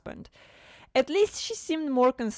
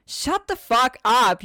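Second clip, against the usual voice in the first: angry snap; 5 semitones higher, 7 dB louder, slower than usual. Acted. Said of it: "she snapped".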